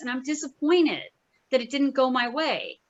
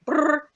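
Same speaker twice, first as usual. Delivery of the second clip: a short rumbling train noise; imitated train rumble; rumbling brrr; 3 semitones higher, 4 dB louder than usual. Shown as a demonstration. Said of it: "it's going like".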